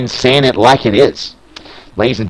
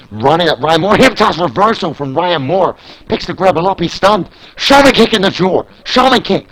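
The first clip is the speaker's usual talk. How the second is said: rising, louder and higher to the three count; excited call; 10 semitones higher, 4 dB louder than usual. Acted. Commentator calling the finish of the tag match, excited shouting. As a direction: build the hype to a shouted pin count.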